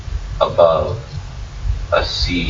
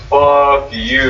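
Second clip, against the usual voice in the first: mild mock girly scream; 6 semitones higher, 3 dB louder than usual. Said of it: "And he goes".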